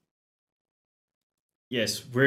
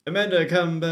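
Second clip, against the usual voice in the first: mock calling out; 6 semitones higher, 5 dB louder, faster than usual. Calling after fleeing daughter.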